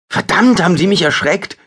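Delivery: high, loud startled yelp; startled cry. A narrator's reading. Jola, shocked by a hand on her shoulder, cries out high and loud. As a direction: jump out of your skin and shout it.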